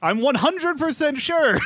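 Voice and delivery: high, loud, drawn-out declaration; emphatic insistence. Real, not acted. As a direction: insist loudly, leaving no doubt. Insists when his certainty is questioned.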